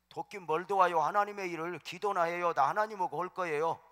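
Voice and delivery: defiant shout. Retold or imitated. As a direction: throw the offer back in their faces. Proudly refusing his siblings' help.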